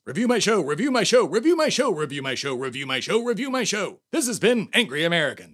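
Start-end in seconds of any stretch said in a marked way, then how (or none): 0.1-4.0 nagging repeat. Acted. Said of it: "I'll say it forty-seven times".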